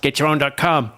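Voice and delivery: a light imitation of the podcast host's catchphrase, lifting on "right"; Todd impression. Host imitates fellow podcaster's catchphrase for listener, a light jokey impression. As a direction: lightly mimic Todd's sign-off with a perky rise. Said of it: "where I impersonate, uh, Todd and Rob".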